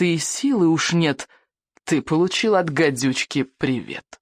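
slow, measured verse reading; poem recital. Acted. Old healer recites the adder's rhyme, slow incantation. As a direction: recite it line by line, with pauses.

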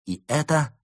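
slow start, measured ceremonial delivery; solemn announcement. A narrator's reading. Fox announcing all the unhappy are assembled, solemn. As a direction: proclaim it with deliberate pauses. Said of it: "торжественно произнёс".

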